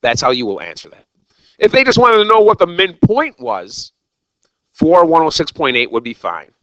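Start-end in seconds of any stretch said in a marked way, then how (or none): 1.6-6.5 rising fired-up teacher voice, louder and higher; worked up. Real, not acted. Teacher getting worked up at the class, almost yelling. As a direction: get heated explaining it to the class. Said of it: "I got a little worked up there".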